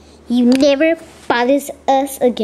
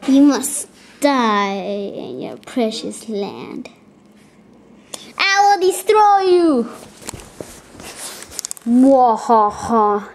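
mad scientist; 3 semitones lower, slower than usual. Pretend. Villain threat and evil laugh.

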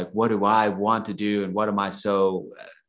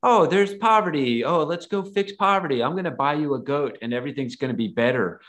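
higher, breezy mock-cheerful voice; mocking naive do-gooder; 5 semitones higher than usual. Speaker mocks people who think poverty is easily fixed, mock-cheerful. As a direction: lampoon the easy fix. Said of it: "you can't just say".

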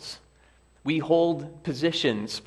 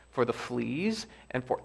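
calm and softer; serenely; 4 dB quieter than usual. Acted. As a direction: carry on peacefully, unbothered. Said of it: "Betsy went on serenely".

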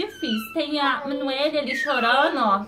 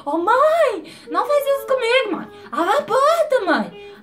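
imitating a child wailing at a locked door; loud, high, drawn-out mock kid yell; 9 semitones higher, 6 dB louder than usual. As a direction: holler for mom like a shut-out child. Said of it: "Aí ele chuta".

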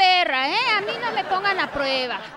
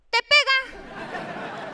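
slow, drawn-out and higher; slow dramatic punchline; 8 semitones higher, much slower than usual. Retold or imitated. Comic telling the audience mom hits you, slow and drawn out. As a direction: drag out each word for effect.

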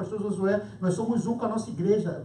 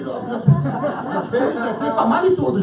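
laughing; 3 semitones higher, 7 dB louder than usual. Real, not acted. Laughing recalling the bold demand.

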